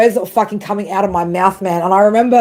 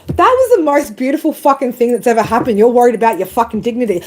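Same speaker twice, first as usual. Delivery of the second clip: scoffing retort; 4 semitones higher than usual. Retold or imitated. Retorting to her ego.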